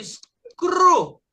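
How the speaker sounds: "screw" stretched, EW as one long oo; single vowel sound. Shown as a demonstration. Teacher shows two letters making one sound, drawn-out pronunciation. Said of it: "O E com o U faz um som só".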